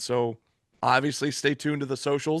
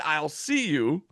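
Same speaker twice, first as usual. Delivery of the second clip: slow menacing promo; 3 semitones higher, much slower than usual. Retold or imitated. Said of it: "He said".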